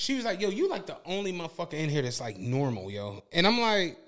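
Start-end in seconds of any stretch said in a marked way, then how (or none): 0.4-3.2 mildly weighed down, sinking low at the end; heavy-hearted, retold. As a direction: imitate her heavy remark, voice dropping away. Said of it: "something heavy attached to that".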